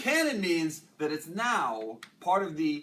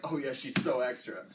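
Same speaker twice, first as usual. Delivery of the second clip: pointed remark, leaning on "so"; a knowing comment with stress on "so"; loaded connotation; 3 semitones lower than usual. Shown as a demonstration. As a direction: put more weight on "so extra". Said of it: "They're different things".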